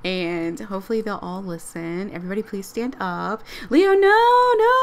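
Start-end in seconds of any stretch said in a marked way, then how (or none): 3.7-4.7 loud, high, drawn-out no; high wail of comic dismay; alarmed cry. Real, not acted. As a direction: call out to stop him. Stopping game character's accident.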